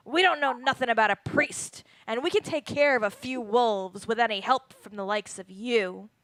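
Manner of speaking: rough, fierce growling voice. A game narrator voices the innkeeper answering the players, as a growling innkeeper. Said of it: "The innkeeper growls".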